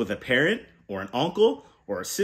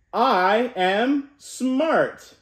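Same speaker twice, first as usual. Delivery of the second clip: rousing call to repeat; 6 semitones higher, much slower than usual. Shown as a demonstration. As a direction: stretch it out so kids join in. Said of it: "one more time".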